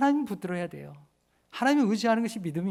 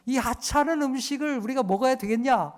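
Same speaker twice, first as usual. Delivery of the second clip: scornful complaint; 4 semitones higher than usual. Retold or imitated. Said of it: "뭐라고 얘기하냐면".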